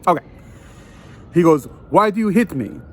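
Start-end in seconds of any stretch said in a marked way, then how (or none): 1.9-2.8 put-on lightly done Dracula-style foreign accent. Concertgoer asks the man who hit him, mock Dracula accent. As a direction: imitate him with a slight Dracula accent, higher pitched. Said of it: "I'm gonna make him sound like Dracula".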